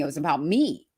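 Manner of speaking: usual speaking voice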